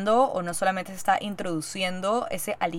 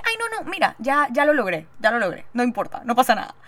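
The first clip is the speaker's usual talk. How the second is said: eager reassurance; 4 semitones higher than usual. Retold or imitated.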